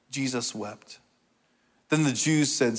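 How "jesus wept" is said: softly, the two words run together; hushed repeat. Real, not acted. Preacher repeating the shortest verse to congregation, hushed. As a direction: let the verse drop quietly.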